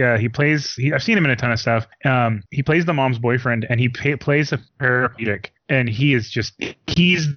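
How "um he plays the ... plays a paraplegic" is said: mic pops on the p's; bad call line with popping plosives; popping p sounds. Real, not acted. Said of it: "Mikey's mic is popping a little bit".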